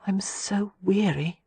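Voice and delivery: weary, slow breathy whisper. A narrator's reading. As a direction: breathe it out, exhausted. Exhausted woman in bed at night.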